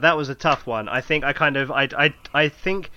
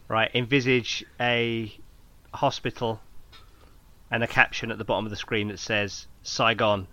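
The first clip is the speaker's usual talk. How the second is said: dramatic trailer narration building to shouts; movie trailer voice; 5 dB louder, slower than usual. Pretend. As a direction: sell it like an epic war film trailer.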